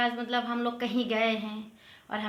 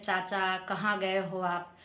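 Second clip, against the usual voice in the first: slow, word by word for students to note; slow repeat; 2 semitones lower, slower than usual. Shown as a demonstration. Teacher repeating the Hindi phrase for learners, slowly. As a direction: spell the question out slowly. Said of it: "Hindi में ऐसे तो बोलते हैं".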